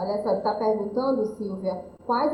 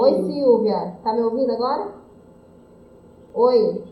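raised voice over a bad connection; 6 dB louder than usual. Real, not acted. Checking if caller hears her.

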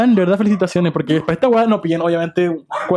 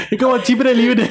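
laughing; 3 semitones higher, slower than usual. Real, not acted. Repeating it, still laughing.

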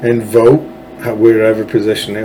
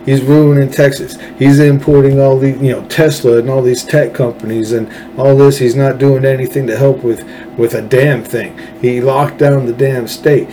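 mock angry voter rant; 3 semitones higher than usual. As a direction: vent like a fed-up Texan. Voicing angry Texas voters.

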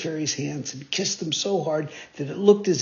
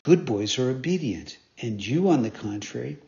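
lightly lower, gentle scolding fairy; fairy's reproach; 4 semitones lower than usual. Acted. Fairy scolding the naughty puppet, lightly lowered voice.

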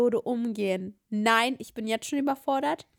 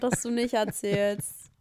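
usual speaking voice

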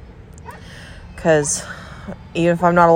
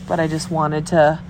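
stuffy nose; 2 semitones lower than usual. Real, not acted. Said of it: "oh, I'm all stuffy".

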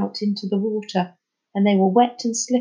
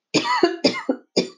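distant bellow. Acted. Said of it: "A bellow from the harbour".

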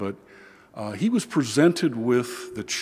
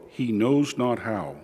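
solemn liturgical reading voice; gospel reading. Acted. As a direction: proclaim the gospel steadily from the ambo.

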